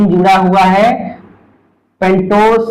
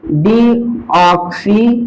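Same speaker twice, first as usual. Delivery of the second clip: slow dictation; much slower than usual. Shown as a demonstration. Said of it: "तो इसको कैसे पढ़ेंगे?".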